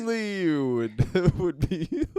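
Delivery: laughing tease. Real, not acted. Co-host teasing friend about the llama, laughing. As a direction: tease through real laughter.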